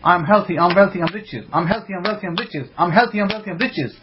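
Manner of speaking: I'm healthy, I'm wealthy, I'm riches run together without pause; rapid repeated affirmation. Shown as a demonstration. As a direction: rattle it off over and over, a chant. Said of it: "say it about ten, fifteen times".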